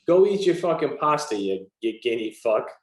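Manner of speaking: jokey fake slurs with a laugh; playing a bigot for the joke, laughing through it; mock bigot insults, laughing. Shown as a demonstration. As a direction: toss the insult out while laughing. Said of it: "why is that so offensive".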